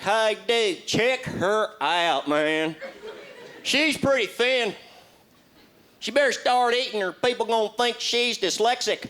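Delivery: two guys ogling at a store, drawled; lightly voiced local guys. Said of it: "They're like".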